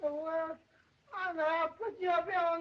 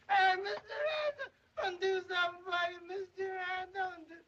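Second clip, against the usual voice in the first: crying shout. Acted. Calling after him in water.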